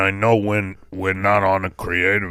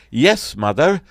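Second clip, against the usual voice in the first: put-on dutiful young son; 5 semitones higher, 3 dB louder than usual. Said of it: "I was like".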